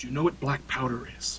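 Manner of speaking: soft whisper in a put-on voice. Voicing a character who asks about black powder: whispering in character. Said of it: "whispers up to you".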